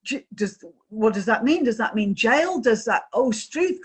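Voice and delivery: stammered, panicky questions; acted parental panic. Parent asking son if it means jail, panicked. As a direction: retell mild panic, stumbling over the questions. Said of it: "sent me into typical parental absolute panic".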